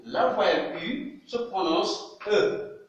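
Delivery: slow "E" as in an unstressed schwa; teaching pronunciation. Shown as a demonstration. Teacher demonstrating the third sound of the vowel U. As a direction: draw out the final "E" slowly. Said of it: "troisième niveau".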